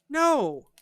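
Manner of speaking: loud high no's stepping downward; emphatic scolding string of no's; exasperated refusal. Retold or imitated. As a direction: shut it down in exasperation. Exasperated retort to the heroine.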